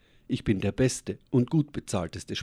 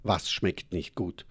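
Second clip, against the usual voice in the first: confused; slower than usual. Acted. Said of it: "fragte ich sie verwirrt".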